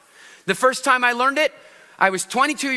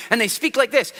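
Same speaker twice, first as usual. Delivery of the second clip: visual speaker voice; 3 semitones higher than usual. Shown as a demonstration. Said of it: "talk really quickly and loudly".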